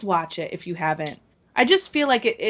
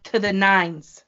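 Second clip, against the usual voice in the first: slow, spaced-out praise, raised pitch; emphatic adoration; 3 semitones higher, slower than usual. Real, not acted. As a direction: give each word its own slow beat. Celebrating the wrestler's outfit.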